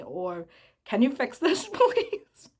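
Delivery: loud, very high mock begging; jokey high pleading with a laugh; high-pitched plea. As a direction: squeak out a pleading request, half laughing. Acts out asking for help.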